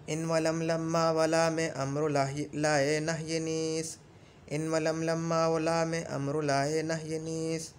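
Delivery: slow monotone chant with held syllables; verse recitation. Shown as a demonstration. Teacher reciting a memorised grammar verse, slow level chant. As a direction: chant the couplet on one steady note.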